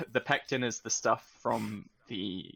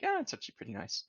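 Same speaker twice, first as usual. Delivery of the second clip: pleasantly surprised; 6 dB quieter, faster than usual. Retold or imitated. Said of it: "you drink more of it and you're like".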